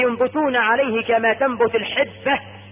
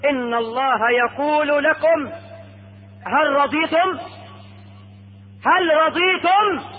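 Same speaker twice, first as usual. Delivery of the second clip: slow, stretched proclamation rising high; calling out; 5 semitones higher, slower than usual. Acted. Caller relaying God's question to Paradise, proclaiming. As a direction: deliver the question as a herald. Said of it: "يسمعون المنادي".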